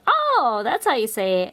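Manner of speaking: squeaky high "Oh" of surprise; mock surprise. Told the right way, she answers with a high surprised oh. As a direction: act out a sudden realization. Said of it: "I'm like".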